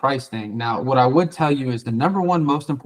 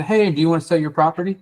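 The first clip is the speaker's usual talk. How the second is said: pushy salesy pitch; 5 semitones higher than usual. Shown as a demonstration. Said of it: "usually there's a".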